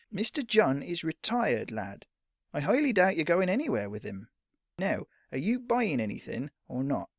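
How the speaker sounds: lightly voiced impatient shopkeeper; dismissive shopkeeper. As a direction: brush the boy off.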